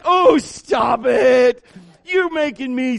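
loud, drawn-out scolding; exasperated sister. Retold or imitated. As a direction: stretch it into an annoyed mock shout. Sister scolds him again.

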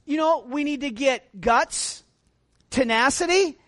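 normal talking voice

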